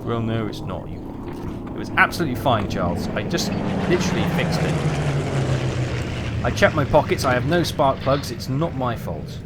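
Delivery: hammed-up exasperated rant at the pilots; mock rant. Mechanic mock-ranting about the pilots who break his aircraft. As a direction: grumble like a fed-up mechanic about careless flyboys. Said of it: "Rant over".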